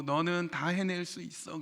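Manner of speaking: soft coaxing. Retold or imitated. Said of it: "얼마나 부드럽게 얘기하고".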